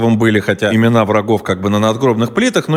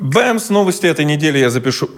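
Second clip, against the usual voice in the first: echoing stairwell; 4 semitones higher than usual. Real, not acted. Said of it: "Ох, какое эхо".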